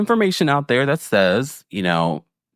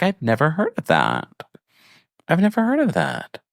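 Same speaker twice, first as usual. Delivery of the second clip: mock bafflement, pitched up on the repeat; confused; 3 semitones higher than usual. Recapping Stacy confused about drag kings, mildly mocking bafflement. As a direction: imitate someone puzzled, higher the second time. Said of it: "But Stacy's confused".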